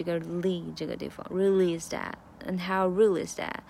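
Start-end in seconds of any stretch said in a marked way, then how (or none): 1.3-3.6 "real is that" run together like "release that"; linked real-is-that. Shown as a demonstration. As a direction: link "real is" into one word. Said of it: "连读的重点在release这个lee".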